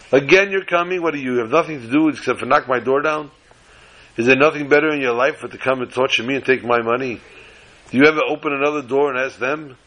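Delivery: fast, exasperated townsman scolding; retold angry rant. Townsman scolding the Rebbe at his door, fast exasperated rant. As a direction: rattle off the complaints in quick irritation. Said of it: "screamed at".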